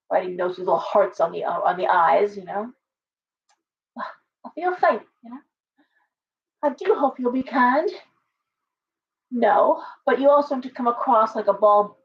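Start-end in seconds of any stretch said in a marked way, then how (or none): 4.0-5.0 slow, higher swooning belle sigh; mock faint. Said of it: "like some Southern belle". 6.6-7.9 belle. Retold or imitated. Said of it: "like some Southern belle".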